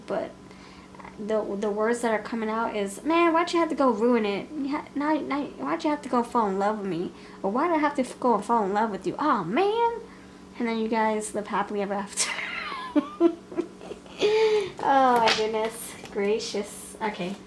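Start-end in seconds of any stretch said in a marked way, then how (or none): 3.0-9.9 exasperated lament. Retold or imitated. Reader voices the person's lament. 12.3-14.8 high bursting laugh; burst of laughter. Real, not acted. Laughs at her own reading.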